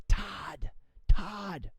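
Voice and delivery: Todd, Todd with a hard T up front; firm accented call of Todd, Todd. Shown as a demonstration. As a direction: call out Todd with a punched T sound, no scream. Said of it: "So you go".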